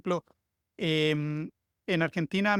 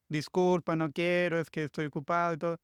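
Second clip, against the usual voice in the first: polite Chilean refusal. Retold or imitated. Imitating how a Chilean turns down a street seller, apologetic. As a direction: ease the refusal gently, trailing off. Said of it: "el chileno dice".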